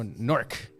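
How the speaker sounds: "Nork" slow and drawn out, a clipped one-syllable Newark; local Nork. Shown as a demonstration. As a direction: say "Nork" slowly, swallowing the middle of Newark. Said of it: "it's like Nork".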